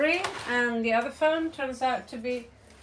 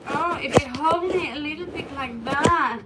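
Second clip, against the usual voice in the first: a lightly voiced coy phone, a touch higher and louder; voicing the phone; 4 semitones higher, 5 dB louder than usual. Vlogger lightly voices her phone wanting to be held just so. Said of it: "It's like".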